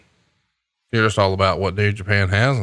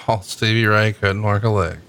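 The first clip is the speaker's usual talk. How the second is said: laughing repeat. Retold or imitated. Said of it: "repeats partner's line laughing".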